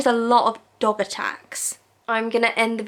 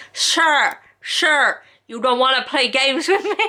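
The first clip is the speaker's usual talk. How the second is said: lightly mimicked stern TV judge; Judge Judy; 2 semitones higher, slower than usual. Vlogger imitating a judge talking to liars, mock sceptical. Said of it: "I can't do her accent".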